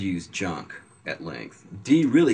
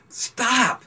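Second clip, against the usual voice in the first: loud, very high mock cry; imitated pleading yell; 5 dB louder than usual. Jeffrey tortured by silly versions of his lyrics, high mock yell. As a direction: yelp it like someone being tormented.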